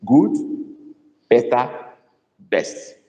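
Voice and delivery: good, better, best dropping off at the end; teaching a word series. Shown as a demonstration. Teacher to class, spelling out the comparison steps. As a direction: set out the three steps, last one fading. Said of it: "it becomes the better one".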